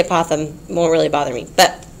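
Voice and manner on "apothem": apothegm said uh-POTH-um; stress on second syllable. Shown as a demonstration. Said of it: "if you say apothegm".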